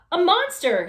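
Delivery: high, loud scared scream; frightened shout. Acted. Baby seeing the pig at her window, screaming in fright. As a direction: shriek at the shape in the window. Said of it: "shouted Baby".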